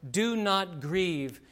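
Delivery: slow, forceful "Do not grieve"; emphatic. Shown as a demonstration. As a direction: DO NOT GRIEVE drawn out slowly, word by word. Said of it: "I emphasize here doubly".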